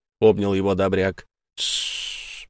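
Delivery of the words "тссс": a hushed tsss; shushing whisper. Acted. Tom hushes Dobryak in a whisper. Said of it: "приставил палец к губам Том".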